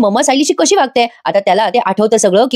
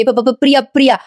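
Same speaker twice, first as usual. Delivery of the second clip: stammering; 3 semitones higher than usual. Retold or imitated. Priya stammers her own name.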